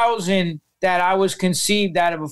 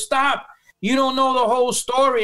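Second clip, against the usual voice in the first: mother's plea, pitched a little higher; retold begging; 4 semitones higher than usual. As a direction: lightly imitate a mother pleading. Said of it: "she's begging me".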